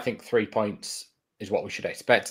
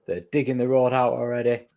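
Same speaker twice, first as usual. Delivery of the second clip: higher-pitched pretend alarm; mock snow panic; 3 semitones higher than usual. Co-host teasing about snow up here, mock panic. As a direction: play up a town in a flap, pitched up.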